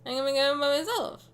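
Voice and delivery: A singer's voice. Retold or imitated. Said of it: "like a singer".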